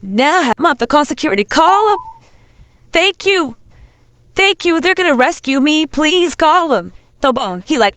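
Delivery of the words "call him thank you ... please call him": high, pleading little voice, drawn out on the last plea; mock relieved pleading. Retelling how she begged security to save her, high mock plea. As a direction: beg for rescue in a much higher voice.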